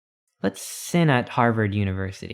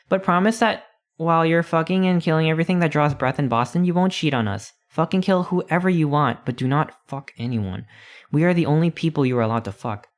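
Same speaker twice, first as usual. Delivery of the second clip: lightly voiced clingy husband and wife, higher; a touch of a pleading married couple, pitched up; spouses' voice; 4 semitones higher than usual. Husband and wife begging over the phone, lightly voiced higher.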